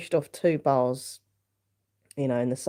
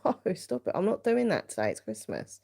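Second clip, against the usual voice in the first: mock protest; 5 semitones higher than usual. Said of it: "I'm like".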